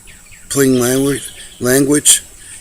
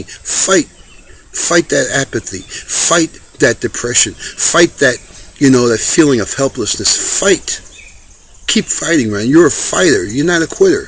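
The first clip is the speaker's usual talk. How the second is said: fired-up pep talk; 4 semitones higher than usual. Retold or imitated. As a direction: pump him up to fight back. Rallying an angry man to fight.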